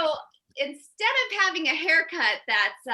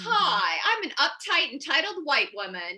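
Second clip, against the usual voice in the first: lightly voiced entitled Karen; a hint of self-satisfied entitlement; mock Karen; 3 semitones higher than usual. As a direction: introduce yourself as a mildly hammed-up uptight woman. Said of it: "you all know Karen".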